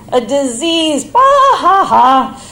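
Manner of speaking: mother laughing off the idea, loud mock scoff; cracking up. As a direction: laugh it off as absurd. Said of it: "She cracked up".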